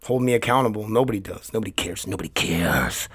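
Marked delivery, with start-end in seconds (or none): 2.1-3.1 low, slow, drawn-out lament; mock self-pity. Host complains that listeners don't care, mock self-pity. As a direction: sink the pitch and stretch the last word.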